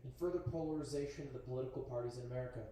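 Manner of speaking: lightly news-anchor read, low and even. Real, not acted. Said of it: "Why do I sound like a journalist?".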